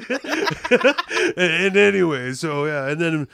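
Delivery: lightly voiced rambling griper; Roger impersonation. Roger recounting his night to a friend, lightly put-on gripe. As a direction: ramble on, sinking into a wistful aside. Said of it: "Beeching to his friend about the night".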